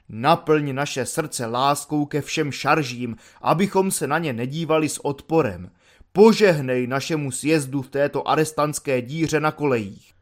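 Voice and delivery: hands clasped, intone it like a hammed-up priest; mock prayer. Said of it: "spínaje ruce".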